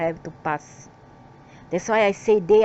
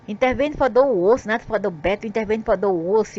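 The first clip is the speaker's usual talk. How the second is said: bitter accusation; 2 semitones higher, faster than usual. Real, not acted. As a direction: hurl the charge at them. Accusing gods of meddling.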